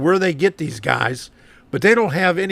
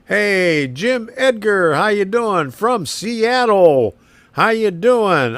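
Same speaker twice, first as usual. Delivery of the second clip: cheerful greeting; 4 semitones higher, 3 dB louder, slower than usual. Real, not acted. Greeting a viewer on stream.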